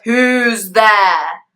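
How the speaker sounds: loud startled dragon shout. Acted. Father dragon wakes and shouts at the noise, loud. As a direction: bark it into the dark.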